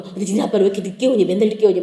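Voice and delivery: mock nagging, rattled off low; imitated nagging. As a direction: grumble rapidly about a late husband. Mother grumbles about late father.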